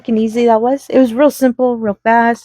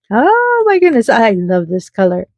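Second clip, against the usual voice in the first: delighted gush. Real, not acted. Delighted by teal bead color.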